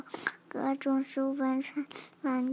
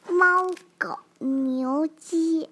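loud, excited shouting; 3 semitones higher, 12 dB louder, much slower than usual. Real, not acted. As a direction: call the animals out loud. Child shouts out animal names.

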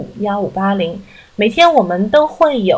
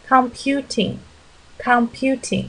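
slow model word; 3 semitones higher, 4 dB quieter, much slower than usual. Shown as a demonstration. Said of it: "一个专业的名称".

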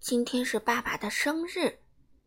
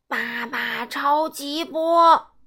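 attack call; 6 dB louder, much slower than usual. Acted. Hero fires attack again.

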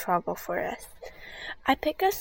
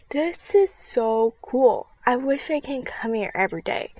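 amazed; 3 semitones higher, 5 dB louder than usual. Acted. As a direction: marvel at the place. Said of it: "Rebecca said with amazement".

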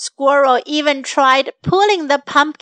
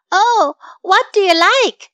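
anxious, a little higher and quicker; worried; 5 semitones higher than usual. Acted. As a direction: ask it nervously, a bit on edge. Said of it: "said squirrel in a worried voice".

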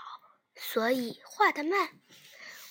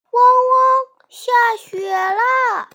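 high, loud excited puppy bark; yappy panting puppy; 9 semitones higher, 12 dB louder, much slower than usual. Acted. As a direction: yap it out like a thrilled little dog. Puppies bark at the snow.

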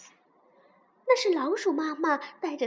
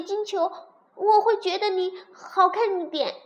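higher-pitched, haughty little princess; disdainful princess; 4 semitones higher than usual. Acted. Princess bargains with the ugly frog, disdainful. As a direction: voice a spoiled princess looking down on someone.

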